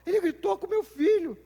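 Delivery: high, loud outraged mother complaining about the coach; mock-outraged mother, pitched high and loud; indignant parent. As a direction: rant like a mom defending her kid. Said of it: "gente com raiva do treinador".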